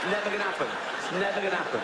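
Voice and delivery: acted calling out. Comic acting out sea rescue by helicopter, calling out. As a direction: call it over an imagined rotor din.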